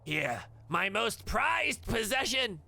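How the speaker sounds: high, slow, reverent offering; grovelling madcap. Acted. Madcap offers his prize on his knees, high and slow. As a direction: offer it up like a holy relic. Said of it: "collapses onto his knees".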